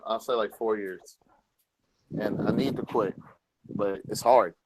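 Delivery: talking around a cigarette; smoking while speaking; cigarette in mouth. Real, not acted. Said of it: "I'm smoking a cigarette right now too".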